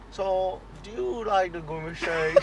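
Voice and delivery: slow, lightly put-on Widowy voice; feed the line slowly in the silly voice; demonstrating the voice. Shown as a demonstration. Mate coaching what to say, slow Widowy voice. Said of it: "you gotta say".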